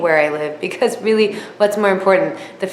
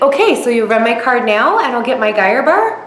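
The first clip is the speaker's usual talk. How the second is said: super happy; 4 semitones higher, 5 dB louder than usual. Retold or imitated. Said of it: "Super happy again".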